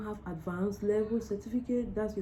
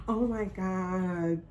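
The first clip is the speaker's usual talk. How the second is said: emotional joy. Real, not acted. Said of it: "I'm so happy".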